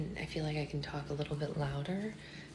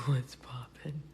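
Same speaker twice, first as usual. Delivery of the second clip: quiet at night; 4 semitones lower, much slower than usual. Real, not acted. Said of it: "Secret Boyfriend is sleeping".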